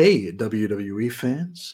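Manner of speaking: very slow, fake, phony commercial presenter voice. Mocking the lady in an ad: imitating a phony commercial voice. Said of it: "the lady on it being very, very phony. She's like".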